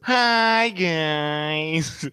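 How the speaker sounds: bright high hello; high cheery greeting. Real, not acted. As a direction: sing out the hi.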